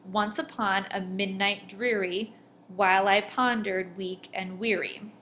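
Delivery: "Once upon a midnight dreary, while I pondered weak and weary" in marked beats; "Once upon a midnight dreary" read to show the stress pattern; exaggerated meter. Shown as a demonstration. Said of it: "that's how those are stressed".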